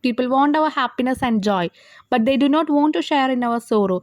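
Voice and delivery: drawn-out reading of the exam question; slow reading aloud. Shown as a demonstration. Teacher reads the question paper to students, slowly. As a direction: read it out slowly so they can follow.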